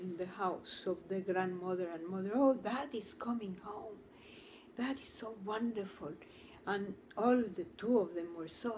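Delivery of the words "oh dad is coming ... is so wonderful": breathless, eager whisper; excited whisper. Retold or imitated. Family excited, father returning home.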